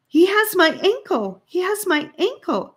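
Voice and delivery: high, loud panicked repeated cry; frightened cry. Acted. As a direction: beg for help as she's grabbed. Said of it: "Annika cried".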